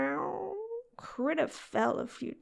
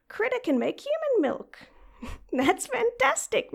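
high, loud and giddy, bursting with glee; giddy cat girl thrilled at the idea; excited; 8 semitones higher, 4 dB louder than usual. Acted. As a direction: squeal it with delight. Excited about making milk.

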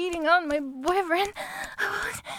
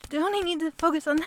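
ordinary delivery

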